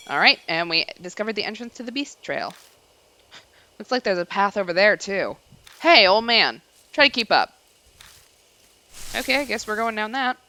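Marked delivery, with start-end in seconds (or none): 5.8-7.5 cocky tease. Acted. Teasing a companion.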